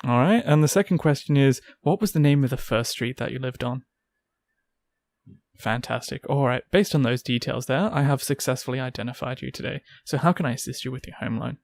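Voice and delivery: polite call centre script; phone agent running security checks; customer service voice. Pretend. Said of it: "In my work voice".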